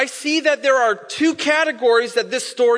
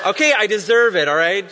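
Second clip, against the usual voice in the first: chuckling, owning up to it; good-natured laughing admission; laughing concession; 2 semitones lower, 3 dB louder than usual. Retold or imitated. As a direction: laugh it off as you admit fault. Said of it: "And I'm like".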